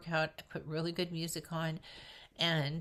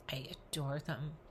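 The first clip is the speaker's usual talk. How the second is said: choked up; 3 semitones lower, 6 dB quieter than usual. Real, not acted. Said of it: "I always get emotional when I talk about this".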